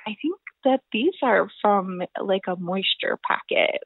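imitating dad's calm, factual explanation; matter-of-fact. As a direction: deliver the diagnosis with no drama. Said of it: "very matter-of-factly told me".

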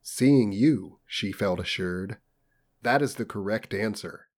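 measured audiobook dialogue; story narration. A narrator's reading. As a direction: read the stilted dialogue evenly, dropping off after quotes. Reads novel dialogue again.

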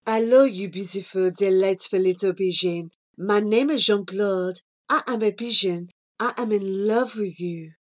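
put-on French pigeon suitor with a French accent; deep, low coo. Jean-Claude declaring love to Charlie, deep and low. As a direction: croon it low like a French Romeo. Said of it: "deep and low".

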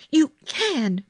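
high, insistent contradiction; mild scream. A narrator's reading. Girl contradicts hysterical boy, mildly screamed. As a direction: overrule him fiercely. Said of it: "Mary screamed".

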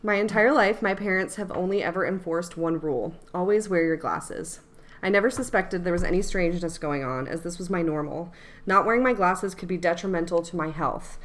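measured storytelling read; story reading. Acted. Reads her story aloud.

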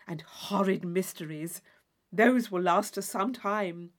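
lightly dramatic list-reading; Isabella listing titles. Acted. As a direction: savour the horrid names. Isabella reads novel titles.

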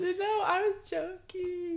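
put-on a light British accent, slow and soft; lightly voiced British accent, joking. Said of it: "Love Island accent".

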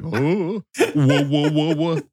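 high, startled whoas through a laugh; mock surprised. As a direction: pull back in mock alarm. Dad reacting to the son's reveal.

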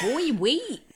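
laughing through the line. Acted. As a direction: crack up mid-line. Voicing Kurt Russell in rap.

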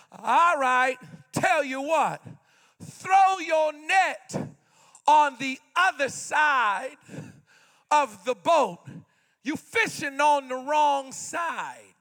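slow, deliberate, lightly voiced Lord; the Lord speaking. The Lord telling fishermen where to cast, slow and deliberate. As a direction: lay out each word slowly. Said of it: "And the Lord says to them".

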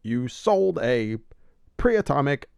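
slow, disapproving Batman voice; judgy Batman. Retold or imitated. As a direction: scold him slowly, judgy.

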